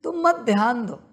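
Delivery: normal talking voice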